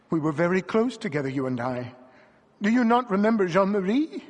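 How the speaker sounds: emotional appeal swelling toward the name; rising sob. A narrator's reading. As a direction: build to an imploring question. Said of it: "a sob rising from her throat".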